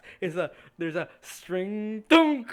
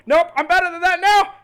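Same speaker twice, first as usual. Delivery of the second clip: loud, higher cocky yell; defiant shout; 11 semitones higher, 13 dB louder than usual. Acted. Seventh gloating at the fleeing player, loud cocky shout. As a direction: shout it triumphantly. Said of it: "you hear Seventh go".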